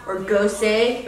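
gose, tried as a possible reading; unsure attempt at gose; guessed pronunciation. Shown as a demonstration. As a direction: offer GOSE as another guess. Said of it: "How do you pronounce that?".

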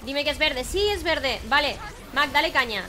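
excited. Real, not acted. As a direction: plead then cheer, thrilled. Hoping target is green, cheering. (emocionado y esperanzado)

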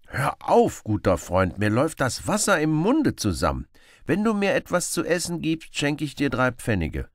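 high, loud eager plea; hungry Robin Hood. Acted. Robin begs the beggar for food, high and eager. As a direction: beg him to stop, mouth watering.

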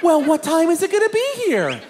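high, pestering wife voice; nagging wife. Retold or imitated. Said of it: "she kept bothering me".

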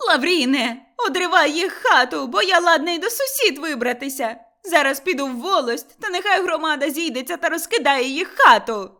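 high, loud furious yell; old woman screaming threats; angry shouting. A narrator's reading. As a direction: demand it at full voice. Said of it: "кричала Кайдашиха".

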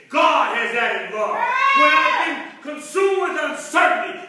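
building sermon litany, phrase answering phrase; rhythmic preaching. Real, not acted. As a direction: preach it in rising, rolling refrains.

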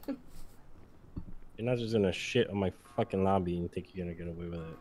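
slow furious scolding; angry yelling. Acted. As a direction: scold her hard and slow. Cop yelling at raccoon.

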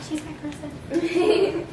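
slow, laughing "She's my person". Real, not acted. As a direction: laugh through it fondly. Laughing fondly about her helper.

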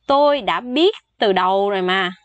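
hushed whispered admission. Shown as a demonstration. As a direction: breathe it out as a whisper. Teacher voices example line.

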